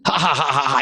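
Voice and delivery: high, scornful ha-ha laughter; acted derisive laughter; mocking laugh. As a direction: laugh him off as a fool. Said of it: "he laughed very loudly".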